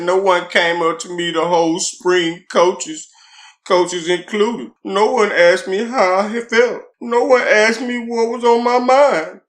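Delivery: slow, whiny mock crying voice; hammed-up sobbing complaint; crying narrative voice. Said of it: "I put it in my crying narrative voice".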